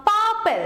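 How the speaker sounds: পার্পল with a held পার and falling পল; stress on first syllable. Shown as a demonstration. Teacher giving an adjective example, পার্পল stressed on পার. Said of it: "পারের ওপর দেখো বেশি জোর পড়ছে".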